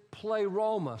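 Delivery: "pleroma" said slowly for repeating; "pleroma" with a long stressed "ro"; teaching pronunciation. Shown as a demonstration. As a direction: model "pleroma" clearly for the congregation. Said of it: "Say pleroma".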